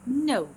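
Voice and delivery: "No" starts high and loud, gliding steeply down; falling tune. Shown as a demonstration. Teacher demonstrating a word to students, high falling glide. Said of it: "نبدي من نبرة عالية إلى نبرة ناصية".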